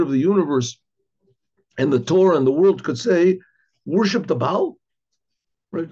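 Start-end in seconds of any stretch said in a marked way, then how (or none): 3.9-4.8 incredulous quoting. Retold or imitated. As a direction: question rising in mild disbelief. Incredulous at prophet's quoted words.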